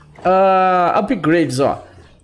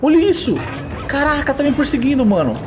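shrill-free breathless panic, much higher; panicked excitement; 9 semitones higher than usual. Real, not acted. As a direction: freak out at the orca. Orca appears, gamer panics.

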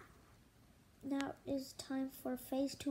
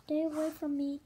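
scared yell. Acted. Mom fleeing tadpoles.

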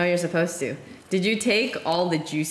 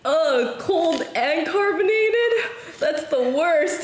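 higher, slow, whiny mock complaint; imitating friend's complaint; 8 semitones higher, 3 dB louder, slower than usual. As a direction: mimic a friend griping, high and slow. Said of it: "She says".

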